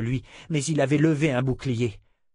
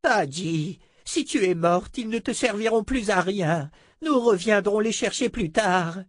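put-on firm old sorcerer voice; 8 semitones higher than usual. Zed reasons with Adi.

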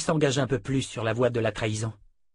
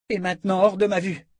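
high, angry command; angry dismissal; 9 semitones higher, 4 dB louder than usual. A narrator's reading. Callan banishes the prince, angry dismissal. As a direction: order him out in a raised pitch. Breaks sword, orders prince out.

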